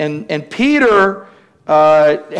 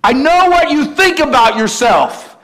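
lightly voiced, higher and slower; Jesus gently challenging; 6 semitones higher, slower than usual. Jesus tells Peter he will deny him, in a mild streetwise voice. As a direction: let him down calmly but firmly. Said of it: "And he says".

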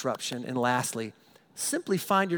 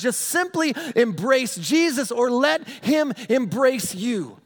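higher, louder preacher's call; fervent preaching; 7 semitones higher, 5 dB louder than usual. Acted. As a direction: preach it out to the congregation. Preaching at full force.

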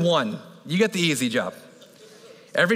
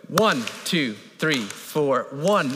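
steady cadence; 3 semitones lower, much slower than usual. Shown as a demonstration. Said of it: "We're gonna start with the first one".

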